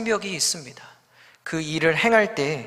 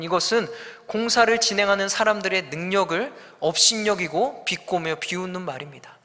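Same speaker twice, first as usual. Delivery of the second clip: normal talking voice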